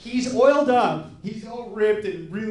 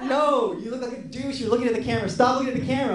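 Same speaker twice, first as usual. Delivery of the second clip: exasperated scolding; 4 semitones higher, faster than usual. Retold or imitated. Photographer scolds the awkward model.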